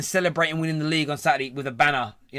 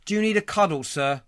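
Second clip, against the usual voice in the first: mock soothing; 2 semitones higher than usual. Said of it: "he seems very angry".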